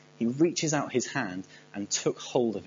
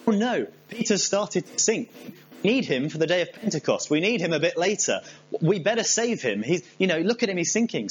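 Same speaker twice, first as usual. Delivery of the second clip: higher-pitched, mildly panicked fretting; mock alarm; 5 semitones higher than usual. Jesus sees Peter sinking and frets, mock alarm. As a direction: fret aloud in mock alarm.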